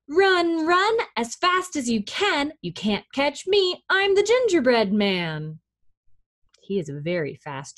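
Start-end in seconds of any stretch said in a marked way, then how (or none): 0.1-5.6 high singsong taunt, coming down at the end; gingerbread man's call. Acted. Reader invites children to help, calling out as gingerbread man. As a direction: chant it so children can join in. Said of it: "let's say that one more time".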